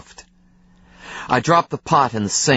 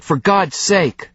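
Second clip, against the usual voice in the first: exploding shout; 8 semitones higher, slower than usual. A narrator's reading. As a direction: let the frustration explode. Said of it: "I shouted".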